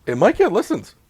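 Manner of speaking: put-on high, dramatic old-timey radio voice. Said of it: "Being in our old-timey voice".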